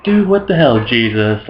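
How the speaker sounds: Mary freaking out. Acted. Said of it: "Mary's all like".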